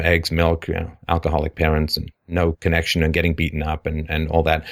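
imitating an unemotional rattled-off list; grocery-list recital. Host mimics how caller lists a painful past, grocery-list recital. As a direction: list it all as if reading out groceries. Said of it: "like a grocery list".

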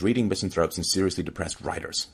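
mild mocking. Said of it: "like mocking his son".

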